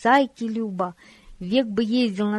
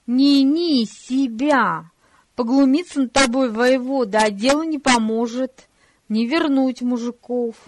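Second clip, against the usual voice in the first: heated; 3 semitones higher, 6 dB louder than usual. Acted. Brother argues with Fyodor.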